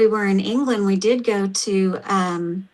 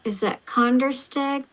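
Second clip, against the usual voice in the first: Oklahoma accent; 4 semitones higher than usual. Real, not acted. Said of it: "with my Oklahoma accent".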